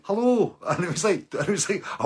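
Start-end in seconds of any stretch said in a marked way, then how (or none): 0.0-0.6 high, loud retold greeting; loud sing-out greeting, acted; calling hello. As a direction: call out to a wary stranger, pitched right up. Greeting a wary stranger at his door.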